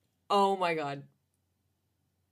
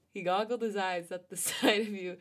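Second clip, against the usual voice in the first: laughing. Real, not acted. Reading while cracking up.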